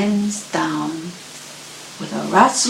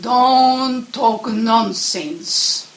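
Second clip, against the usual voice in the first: dismissive mother; 5 semitones higher, 3 dB louder, much slower than usual. Acted. Mother bear dismisses cub.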